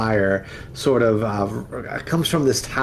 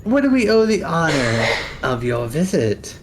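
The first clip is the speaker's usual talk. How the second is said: lightly voiced old crone asking politely; slightly raised old lady voice; a hint of the old woman; 5 semitones higher than usual.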